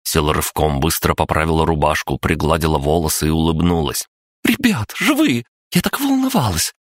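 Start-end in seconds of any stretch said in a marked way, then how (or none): 4.4-6.7 put-on very high, delighted girl voice; excited squeal. A narrator's reading. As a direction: squeal with relief and joy. Kristina's joyful greeting.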